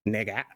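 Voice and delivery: stretched, stressed A ending on "Nigga"; imitated odd pronunciation. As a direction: land hard on the final A of "Nigga". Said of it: "he kinda goes like".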